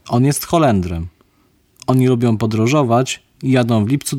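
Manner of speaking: speaking with a cold, blocked nose; stuffy cold voice. Acted. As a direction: talk like you've got a sore throat and a runny nose. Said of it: "dlaczego ty masz taki zmieniony głos?". (głos przeziębionego, zatkany nos)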